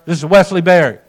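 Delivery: imitating a gruff pastor on a call; brusque, firm name check; kinda gruff. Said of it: "Kinda gruff".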